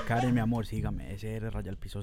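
put-on Colombian accent. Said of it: "Síguelo con la voz nomás".

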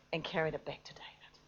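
whispered in awe; hushed. Acted. Preacher whispers the climax of the story to the church, awed whisper. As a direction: drop to a whisper to build wonder.

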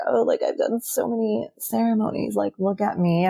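a touch of mock self-importance; mock bragging. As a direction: pretend to boast, without pushing it. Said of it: "brag and be like".

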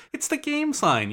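announcer voice. Acted. Announcer plug for website.

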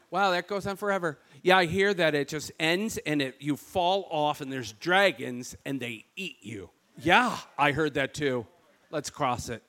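a light Michigan, almost Canadian lilt; Michigan accent. Retold or imitated. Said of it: "we sound like Canadians".

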